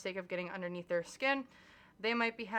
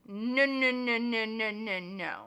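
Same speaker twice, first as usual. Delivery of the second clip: insistent no; 4 dB louder, slower than usual. Acted. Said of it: "I'm not yelling at you".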